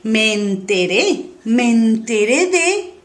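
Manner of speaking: slow, drawn-out 'me enteré', rising at the end; sorpresa insinuada. Shown as a demonstration. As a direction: stretch it out like surprising, slightly forbidden news. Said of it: "Cuando haces esta cara de". (me enteré alargado, con tono de sorpresa)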